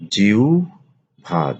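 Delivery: জিহ্বা slowly as jiu-bha; slow model pronunciation. Shown as a demonstration. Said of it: "আলোচনা করব শব্দের উচ্চারণ". (জিহ্বা ধীরে উচ্চারণ)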